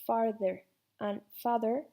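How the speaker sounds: and father in a British RP accent, long a; a long open a in father, RP style. Shown as a demonstration. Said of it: "se pronunciarían de la misma manera".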